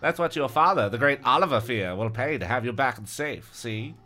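gangster voice. Acted. Reading kidnapper's gangster line.

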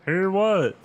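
high, loud sister voice; Lindy, sleepy. A narrator's reading. Woken sister answering Chris, high sleepy voice. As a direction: put on a high, groggy voice. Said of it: "Lindy asked sleepily".

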